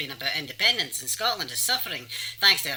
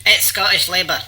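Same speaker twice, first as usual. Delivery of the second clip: loud, insistent correction; indignant insistence; 3 semitones higher, 10 dB louder than usual. Acted. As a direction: insist loudly on the proper name. Insists on the party name.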